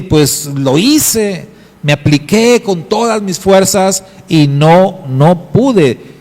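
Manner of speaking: niño que protesta despacio al principio; niño defendiéndose. Acted. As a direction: como un niño frustrado que insiste. Niño se defiende ante padre.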